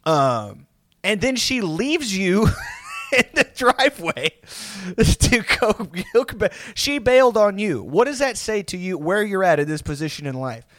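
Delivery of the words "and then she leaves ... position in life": high, raised retold rant broken by laughs; mock incredulous berating. Roommates telling him she bailed on him, mock incredulous. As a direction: rub it in, imitating scornful roommates.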